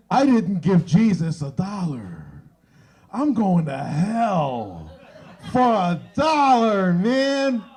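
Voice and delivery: hammed-up dread of hell; mock panic. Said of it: "And I'm like".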